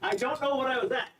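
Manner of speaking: out of breath from squatting; straining through squats. Real, not acted. Player counting squats mid-exercise, real exertion.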